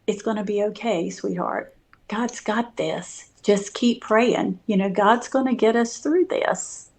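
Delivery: gently retold reassurance; tender, hushed encouragement; humble and kind. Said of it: "be humble and kind".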